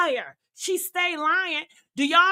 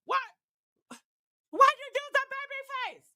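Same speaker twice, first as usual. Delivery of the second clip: high, mocking whine; mock critic voice; 9 semitones higher, 5 dB quieter than usual. Mocking a critic asking why she does the baby face. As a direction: sneer it like a nosy critic.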